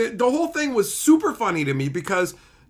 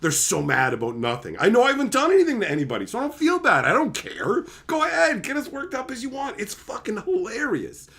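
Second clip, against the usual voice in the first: amused excited. Retold or imitated. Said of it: "What are you laughing about".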